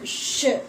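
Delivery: ഷ് as a lone drawn-out "shuh"; teacher demonstrating ഷ് as "shuh"; isolated sh sound. Shown as a demonstration. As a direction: sound out ഷ് by itself, "shh" plus short vowel. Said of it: "അതിന് example ആണ്".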